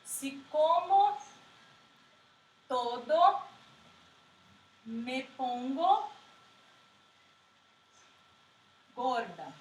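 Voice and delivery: Spanish sentence read very slowly with long pauses between words; slow dictation. Shown as a demonstration. Teacher dictates example sentence to class, very slowly. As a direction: spell it out word by word so students can copy it. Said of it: "uma tilde diacrítica é".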